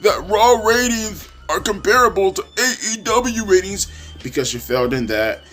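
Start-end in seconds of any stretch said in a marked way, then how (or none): 0.0-3.9 much higher, whiny mock voice of a panicked fan; mocking AEW fans in a high panicky voice. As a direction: squeak it like a flustered yes-man asking the boss. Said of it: "you say to yourself".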